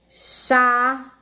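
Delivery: CHA - LE with a long gap between; syllable by syllable. Shown as a demonstration. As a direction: split "Chale" into two drawn-out syllables. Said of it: "fazer a separação silábica".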